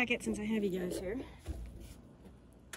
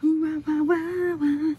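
excited squeal; 6 semitones higher, 7 dB louder, slower than usual. Real, not acted. Excited at the pizza stone.

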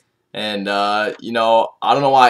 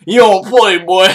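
higher, louder hype call; hyped up; 6 semitones higher, 5 dB louder than usual. Real, not acted. Vlogger hyping up Quincy's punch, pumped hype call. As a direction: shout the catchphrase, pumped.

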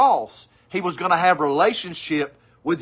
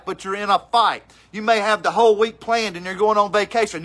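rising, driving sermon voice; rally them for battle; fiery preaching; 2 semitones higher than usual. Acted. Preacher urging the congregation to stay in the fight.

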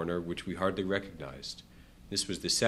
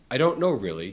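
a touch of hesitancy, pitched higher; uncertain; 5 semitones higher, 6 dB louder than usual. A narrator's reading. Questioned man unsure of his opinion on the war, uncertain. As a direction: answer as if unsure of your own view. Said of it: "in an uncertain voice".

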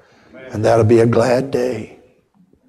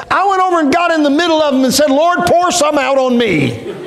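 put-on old preacher voice; 13 semitones higher than usual. Old preacher recalling his prayer, high and laughing. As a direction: voice the old man with a chuckle.

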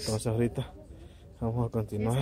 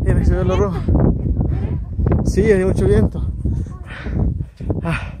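loud over the wind; 7 semitones higher, 9 dB louder than usual. Real, not acted. Hay mucho viento.

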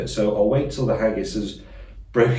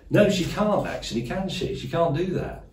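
mock worry; 8 semitones higher, 4 dB quieter than usual. Worried Sturgeon might kick him.

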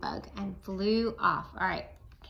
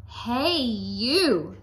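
loud, higher grouchy call; grouchy challenge; 3 semitones higher, 6 dB louder than usual. Acted. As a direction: call out like a grumpy bug. Ladybug challenges snake.

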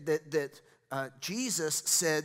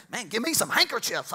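eager believer; 6 semitones higher, 5 dB louder than usual. Retold or imitated. Acts out eager believer's quote.

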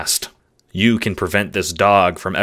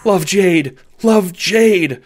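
simple-minded happy dog, higher pitched; 12 semitones higher, 7 dB louder, slower than usual. Acted. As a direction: talk like an eager, dim puppy. Dog character affectionate.

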